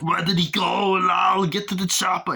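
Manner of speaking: high, loud action yell; hammed-up shout; loud mock shout. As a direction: bark get to the chopper. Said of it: "Kill's like".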